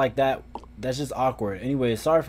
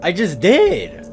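slow, loud and heavy; slow booming reply; loud slow retort; 4 semitones higher, 9 dB louder, much slower than usual. Acted. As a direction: drag it out and boom it. Voicing character reply.

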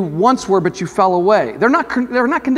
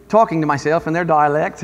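lightly put-on Australian accent; amateur imitation of an Australian accent; attempted Australian accent; 2 semitones lower than usual. Shown as a demonstration. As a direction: playfully slip into an Australian accent. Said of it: "more Australian than anything".

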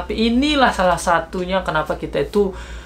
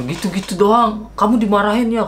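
surprised question; 6 semitones higher than usual. Retold or imitated.

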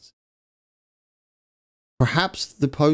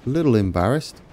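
quiet echo; faster than usual. Real, not acted. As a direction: mumble "A little embarrassed." back sheepishly. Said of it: "I'm a little embarrassed".

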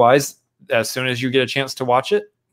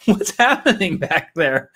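puzzled aside; 8 semitones higher, slower than usual. Retold or imitated. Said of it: "And I was like".

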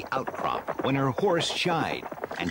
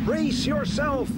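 higher, louder warning shout, slowed; Stratos crying out; 3 dB louder, slower than usual. Acted. Stratos warning Tila as waterspouts rise. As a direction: warn her urgently. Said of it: "he cried to Tila".

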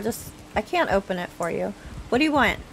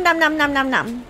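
nom nom chomping; 4 semitones higher than usual. Pretend. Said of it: "I wanna see them".

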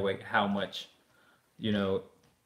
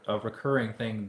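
ordinary talk, nothing marked

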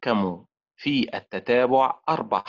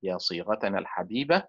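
fond farewell recital; 3 semitones lower than usual. Acted. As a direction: recite it like a tender goodbye letter. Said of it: "أقول لها".

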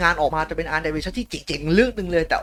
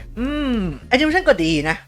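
picky manga author; 2 semitones higher, 4 dB louder than usual. Acted. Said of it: "ผมจะทำเสียงให้แยกกันแล้ว". (เลียนเสียงคนเขียนขอแก้)

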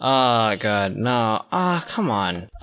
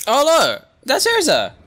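excited; 11 semitones higher than usual. Real, not acted. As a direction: point her out, thrilled. Spots favourite character.

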